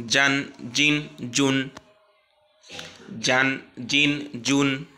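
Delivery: "জান, জিন, জুন" in an even row, each closed on n; tanween read together. Shown as a demonstration. Teacher reading together with learners, measured "জান, জিন, জুন". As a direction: drill "জান, জিন, জুন" slowly and evenly. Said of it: "তাহলে আবার পড়ি".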